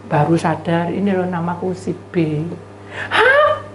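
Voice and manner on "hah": very high drawn-out "hah"; comic open-mouthed gasp; mock gaping. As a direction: gape in exaggerated astonishment. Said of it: "Baru ngawas-ngawas".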